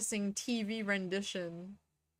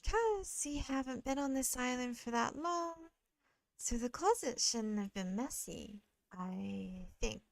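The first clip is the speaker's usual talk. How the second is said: gentle, tentative character voice, fading at the end; soft-spoken game character; 2 semitones higher, 4 dB quieter than usual. Acted. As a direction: reason it out softly, as the character. Reads game character's lines.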